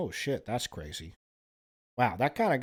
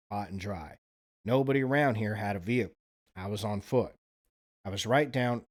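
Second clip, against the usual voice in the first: put-on Alabama accent. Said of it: "it's that accent".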